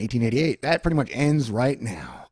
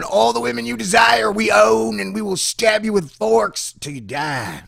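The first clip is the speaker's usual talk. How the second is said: loud, high mock-menacing shout; space pirate; 10 semitones higher, 6 dB louder, slower than usual. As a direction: taunt him like a pirate in his face. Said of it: "I got space pirates up in my face".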